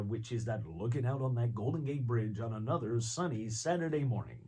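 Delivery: a light American presenter voice. Shown as a demonstration. An American presenter voice shown to the interviewer. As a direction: sell the sunny morning like a US host. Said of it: "bass presenter of America".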